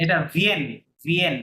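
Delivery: "ভিএন" with the N sounded; pronunciation demo. Shown as a demonstration. Teacher shows student the last word's pronunciation, pronunciation demo. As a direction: model "ভিএন" twice, ending on an N. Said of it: "উচ্চারণটা শেষেরটা".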